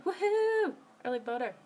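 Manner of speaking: high, loud woohoo; cheering. Real, not acted. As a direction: let out a little victory cheer. Cheering about voting early.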